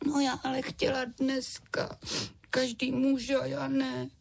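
put-on high, sulky little girl voice; high child's whine, slowing at the end; whiny girl. A narrator's reading. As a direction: sulk like a child kept in bed. Sick girl complains to dad.

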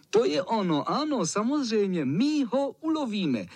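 put-on high, bright-eyed cheer of boys. A narrator's reading. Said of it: "jásali ostatní".

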